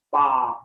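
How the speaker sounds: SPA with the s lightly sounded before "pah"; "Spa" with a faint s and long ah; no silent sounds. Shown as a demonstration. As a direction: say Spa as s-pah, every letter heard. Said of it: "there's no silent sounds".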